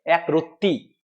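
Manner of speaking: একরত্তি with the doubled tt held and pressed; emphatic. Shown as a demonstration. Teacher demonstrating the forceful form, emphatic. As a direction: lean into the tt of একরত্তি, then let it fall. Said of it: "যখন আমরা জোর দিয়ে বলবো".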